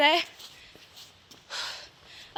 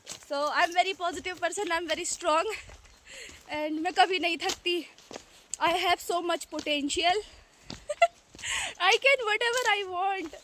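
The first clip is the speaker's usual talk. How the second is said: slow, deliberate mantra, ending in a laugh; mock self-affirmation; 3 semitones higher, much slower than usual. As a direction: convince yourself, word by word, half-joking. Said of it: "ऐसे खुद को यकीन दिलाना पड़ता है".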